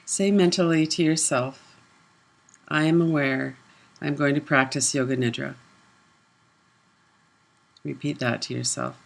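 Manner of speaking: unhurried meditation guidance with long silences; guided meditation. Real, not acted. Leads a body awareness meditation.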